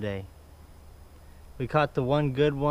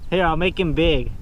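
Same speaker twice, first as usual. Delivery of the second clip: raised voice against howling wind; shouting over wind; 2 semitones higher, 4 dB louder than usual. Real, not acted. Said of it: "Hopefully you can hear me over the wind".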